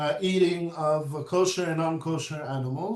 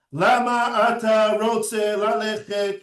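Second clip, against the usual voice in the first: Hebrew in an American accent, stress before the end; 3 semitones higher than usual. Shown as a demonstration. Teacher mimicking English speakers' Hebrew, American accent. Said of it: "Americans speaking Hebrew with an American accent".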